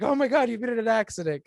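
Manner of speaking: panicked mom. Retold or imitated. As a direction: play the mother who always fears the worst. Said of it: "my mom, she's always like".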